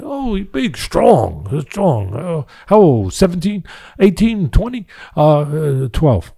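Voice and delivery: high mock Spanish accent, guessing ages; a playful Spanish accent, climbing on the guesses. Trainers guessing the new fighter's age, in a mock Spanish accent. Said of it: "putting on that accent".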